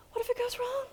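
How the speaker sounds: high, soft, crying what if it goes wrong; mock fearful whimper. Speaker mocking a fearful tester, whimpering mock fear. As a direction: fake a frightened little wail.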